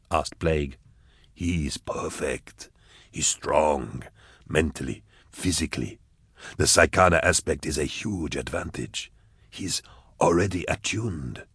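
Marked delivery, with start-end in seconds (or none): 1.3-11.5 scheming villain. Acted. Goblika praising his plan.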